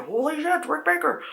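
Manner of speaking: very high awed exclamation; starstruck fan gasp. Retold or imitated. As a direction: gasp at your idol. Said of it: "I was like".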